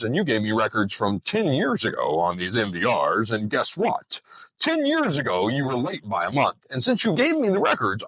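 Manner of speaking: smug auditor. Retold or imitated. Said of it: "that's what their attitude says".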